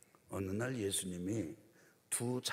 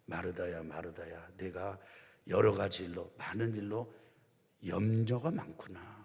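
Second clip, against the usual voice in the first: gentle Jesus. Acted. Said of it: "유명한 말씀을 하십니다".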